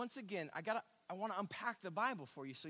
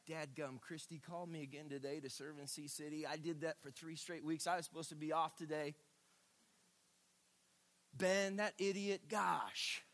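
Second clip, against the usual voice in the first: griping; 3 semitones lower than usual. Retold or imitated. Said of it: "our griping".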